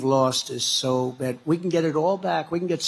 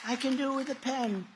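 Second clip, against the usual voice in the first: much softer, almost to himself; hushed aside echoing his own line; quiet repeat; 7 semitones higher, 8 dB quieter than usual. Acted. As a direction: drop the voice for the repeat. Repeats the pen line twice.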